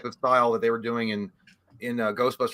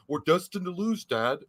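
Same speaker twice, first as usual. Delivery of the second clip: lightly done bad Southern accent; mock an actor's clumsy Southern accent; Keanu Reeves; 3 semitones higher than usual. Host mocking the son's line to his dad, mild Southern accent. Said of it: "a fucking Southern accent too".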